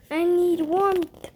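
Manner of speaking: slow pleading serpent voice; slow snake voice. Acted. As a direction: ask for warmth like a snake. Snake complains.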